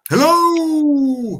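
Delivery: long high loud sung-out hello; excited greeting. Real, not acted. Streamer greeting a guest who just joined, loud and high. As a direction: call out a big hello to the arriving guest.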